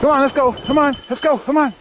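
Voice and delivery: urging the dogs to come; calling the dogs. Real, not acted. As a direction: call them along, eager.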